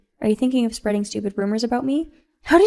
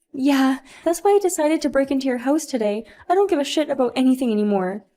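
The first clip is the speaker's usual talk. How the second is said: higher, defeated then frantic; despairing spoiled mom; 3 semitones higher than usual. Acted. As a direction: give up, then panic at the cop. Sophia disowned, gives up.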